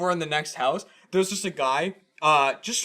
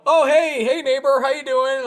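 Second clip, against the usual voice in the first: friendly neighbor; 10 semitones higher, 4 dB louder than usual. Retold or imitated. Imitating overly friendly neighbor.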